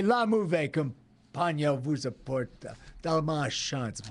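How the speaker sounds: slow French-Canadian accent, slightly hammed; own French-Canadian version. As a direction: deliver it slowly in his own French-Canadian take. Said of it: "You want my version?".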